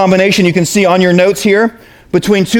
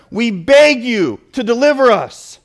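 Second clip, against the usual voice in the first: pleading; 2 semitones higher, slower than usual. Shown as a demonstration. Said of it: "a good translation would be".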